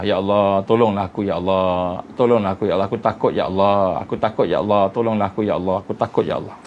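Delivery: low, pleading prayer as if weeping; a hint of crying in a plea for help; tearful prayer. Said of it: "Menangis ke Allah".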